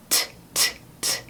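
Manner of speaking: "t" repeated as a voiceless whispered T; soft, breathy "t, t, t"; whispered T sound. Shown as a demonstration. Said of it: "som de T". (som de T sussurrado)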